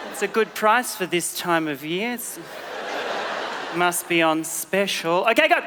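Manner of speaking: dropping to a low mumble over the fruit; distracted by fruit. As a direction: get lost inspecting an apple. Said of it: "we're like".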